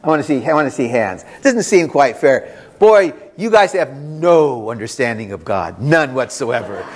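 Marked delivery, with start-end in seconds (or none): 1.4-6.8 mock scolding. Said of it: "I say that tongue in cheek".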